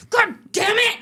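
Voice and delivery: high mock yell of a boy; kid cursing. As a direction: blurt it like a kid in a temper. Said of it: "And he goes".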